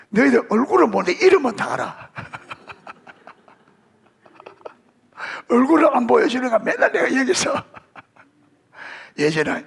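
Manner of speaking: talking high through laughter; real laughter breaking through the words; laughing. Real, not acted. Joking about knowing their names.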